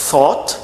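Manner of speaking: "Thought" with tongue between the teeth; TH, not F. Shown as a demonstration. Teacher tells learners to watch closely, "Thought" with clear TH. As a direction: start "Thought" on unvoiced TH, never F. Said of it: "não é som de F".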